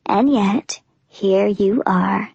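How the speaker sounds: low teasing whisper. Acted. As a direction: breathe it, amused. Warner's teasing reply.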